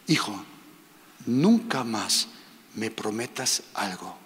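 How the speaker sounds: a lightly voiced God, slow and low; a hint of a tender heavenly father. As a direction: speak gently and slowly as a loving father. God speaking to his son.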